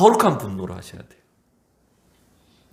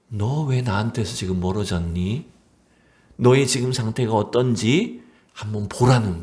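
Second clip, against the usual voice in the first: lower, tender, searching question; gentle questioning; 3 semitones lower than usual. Acted. God asking Adam why he drifted away, gentle. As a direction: ask with care, not accusation. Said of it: "부드럽게 질문하시는 겁니다".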